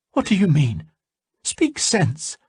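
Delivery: high, sharp demand; alarmed sorceress. A narrator's reading. Salmataya demanding an explanation, high alarmed voice. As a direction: press him anxiously.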